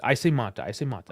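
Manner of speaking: Canadian Mata, flat open A like "mah-tah"; Canadian accent. Shown as a demonstration. Co-host shows his Canadian Mata, Canadian accent. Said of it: "I say it like a Canadian".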